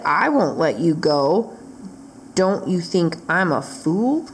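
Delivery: a hint of a low menacing dragon; lightly voiced low dragon threat. Dragon taunting the witch, low and menacing.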